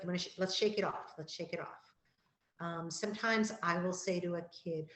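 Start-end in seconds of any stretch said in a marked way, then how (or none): 0.0-1.1 encouraging. Shown as a demonstration. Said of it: "we might say things like". 1.2-1.9 soft coaxing. Shown as a demonstration. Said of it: "we might say things like".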